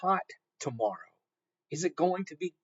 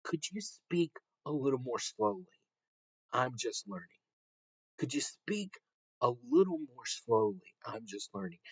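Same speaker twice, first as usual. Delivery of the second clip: soft, careful learner request; 2 semitones lower, 5 dB quieter than usual. Shown as a demonstration. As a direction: ask gently, like a nervous learner. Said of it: "You ask".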